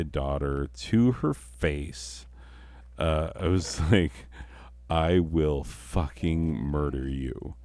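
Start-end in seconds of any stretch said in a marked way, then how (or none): 4.9-7.5 low, slow and flat, a half-joking menace; murderous threat. Retold or imitated. Retelling her threat to her daughter, low slow menace. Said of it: "I said it just like that".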